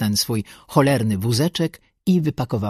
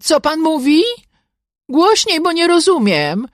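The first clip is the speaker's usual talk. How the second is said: loud, high call across the hall; demanding he speak up, called out loudly; 7 dB louder than usual. A narrator's reading. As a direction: shout so he can hear you from the other room. Calling to man trapped under door.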